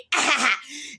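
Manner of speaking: light chuckle at the joke; a short amused laugh; retold laugh. Laughing at the older guy's line, light chuckle. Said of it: "And I start laughing".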